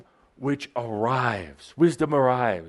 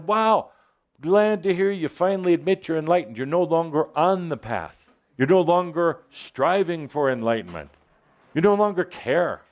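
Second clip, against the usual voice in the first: delighted wisdom voice; 5 semitones higher than usual. Acted. Wisdom voiced welcoming the listener.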